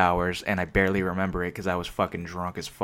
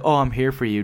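mock-caring imitation, pitched up; fake sympathy; 4 semitones higher, 4 dB louder than usual. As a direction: put on a phony supportive voice. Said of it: "just to, like, make themselves".

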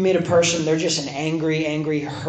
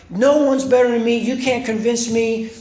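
higher mock boasting; imitated stubborn defiance; 4 semitones higher than usual. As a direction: act out a proud refusal to listen. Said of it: "And he got mad".

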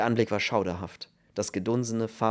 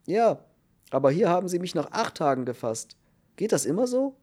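higher, louder voice of a worked-up prisoner; agitated new cellmate; 8 semitones higher, 4 dB louder than usual. A narrator's reading. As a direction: complain in a high, agitated voice. (aufgeregter Häftling, hohe Stimme)

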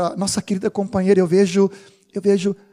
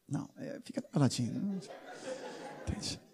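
a soft whisper, much quieter; hushed aside; 7 semitones lower, 19 dB quieter than usual. Real, not acted. Pastor whispering that he should keep quiet. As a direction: whisper it as a joke to the crowd.

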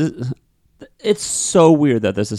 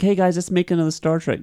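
mock studio exec; 9 semitones higher than usual. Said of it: "C B S is like".

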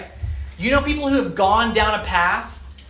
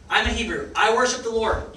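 a touch of smug pride in Jonah's claim; lightly voiced Jonah, puffed up and self-satisfied; mild proud boast; 4 semitones higher than usual. Preacher voicing Jonah to the congregation, mildly proud. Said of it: "'Cause he's proud of himself".

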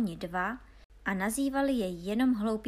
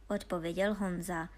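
ordinary delivery

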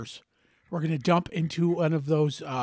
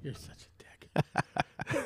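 laughing; 7 semitones higher, 3 dB quieter, much slower than usual. Real, not acted. Laughing insult.

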